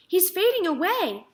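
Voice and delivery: high, loud panicked call; girl's frightened yell. A narrator's reading. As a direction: cry out that he's fading. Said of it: "screamed Fern".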